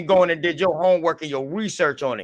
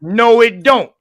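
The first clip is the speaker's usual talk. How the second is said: mocking quote; 6 semitones higher, 7 dB louder, much slower than usual. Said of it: "And you said".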